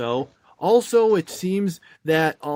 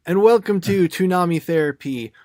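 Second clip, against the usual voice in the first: deliberately awkward intro; 4 dB louder than usual. Shown as a demonstration. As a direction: open the show awkwardly, as a joke. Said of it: "trying to make myself really sound really awkward".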